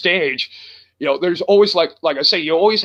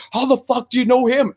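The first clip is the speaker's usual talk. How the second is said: higher-pitched mock disbelief; incredulous question; 6 semitones higher than usual. Imitating everybody looking at Chris, mildly incredulous higher voice. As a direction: imitate baffled friends demanding an explanation.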